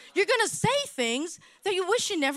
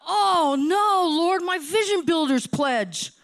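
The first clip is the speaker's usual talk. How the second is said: mock dismay; 2 semitones higher, 4 dB louder, slower than usual. Restaurant owner suddenly remembering a pledge to the Lord, mock dismay. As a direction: wail it in comic dismay. Retold comic dismay in prayer.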